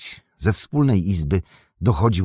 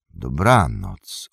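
a slow, low "Dobranoc" drawn out and falling; travellers' reply; 6 semitones lower, much slower than usual. Acted. Travellers answering the gatekeeper, slow low goodnight. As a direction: answer back slowly and deep with "Dobranoc".

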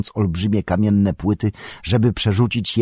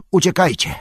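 high-pitched urgent yell; Gandalf's shout; 11 semitones higher, 4 dB louder than usual. A narrator's reading. Wizard sends companions away from the foe, urgent shout. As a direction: cry out the order to flee. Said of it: "krzyknął Gandalf, odzyskując energię".

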